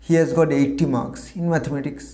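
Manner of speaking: the example sentence read out slowly, word by word; slow dictation. Shown as a demonstration. Teacher giving an example sentence, slow dictation. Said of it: "বাক্য হিসেবে বলতে পারি".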